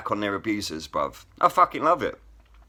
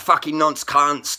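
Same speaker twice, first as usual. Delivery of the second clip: slow, louder mock yell out of the cell; retold shout; 5 semitones higher, 6 dB louder, slower than usual. A prisoner yelling abuse at the other inmates, retold as a slow loud shout. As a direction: bellow it like a prisoner heckling. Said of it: "somebody shouted out".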